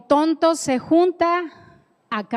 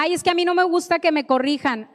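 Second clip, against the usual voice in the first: whiny complainer; 5 semitones higher, much faster than usual. Retold or imitated. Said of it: "Me decía una persona".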